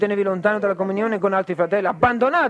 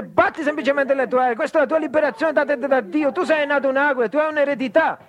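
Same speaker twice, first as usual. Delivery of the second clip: higher calling voice of the mother eagle; 5 semitones higher than usual. Acted. Mother eagle calling her son up to fly free. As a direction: summon him up with joyful urgency.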